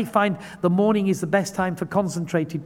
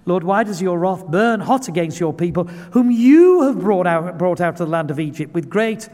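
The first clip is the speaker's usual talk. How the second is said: Moses pleading; 3 dB louder than usual. Retold or imitated. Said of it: "Moses pleaded with the Lord".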